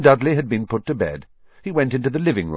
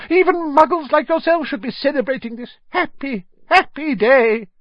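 put-on very high, squeaky, joyful old voice; squeaky old man; 13 semitones higher, 4 dB louder than usual. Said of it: "in a squeaky voice".

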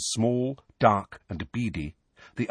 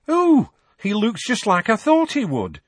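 very high, loud, delighted-sounding witch; young witch; 13 semitones higher, 6 dB louder than usual. A narrator's reading. Witch seeing Harry for the first time, high young voice. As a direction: pitch it right up as a young witch. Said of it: "said the witch".

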